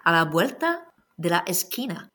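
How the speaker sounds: put-on reading the lyric with a light Spanish accent; lightly put-on Spanish accent. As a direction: give the Spanish lines a Spanish lilt. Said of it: "j'aime bien prendre mon accent espagnol".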